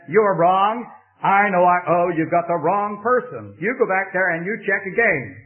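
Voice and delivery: firm and loud, no doubt allowed; stubborn preacher pushing back at the bank clerk, forcefully; definite, insistent. Retold or imitated. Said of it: "this fellow is so definite in everything".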